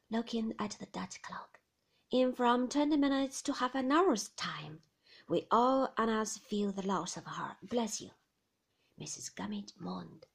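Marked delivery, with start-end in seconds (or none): 2.1-8.1 lightly voiced fisherman, raised pitch; kindly old sailor answering; Mr Peggotty. Mr Peggotty tells David where Emily is, kindly.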